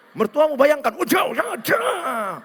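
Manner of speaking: high, punchy exertion yells; mock boxing shouts. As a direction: act out egging on punches at an imagined enemy. Acting out an angry boxing class.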